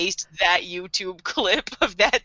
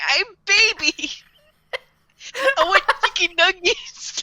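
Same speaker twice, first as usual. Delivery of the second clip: hammed-up baby talk; whiny baby; 9 semitones higher than usual. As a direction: whine like a needy toddler. Acting a big baby, joking.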